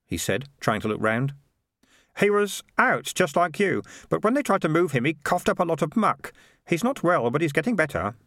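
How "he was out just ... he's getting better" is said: put-on high-pitched, eager boy voice; boy Keith. Keith telling Morris about the burial plan, high boyish voice. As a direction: report it in a higher, youthful voice.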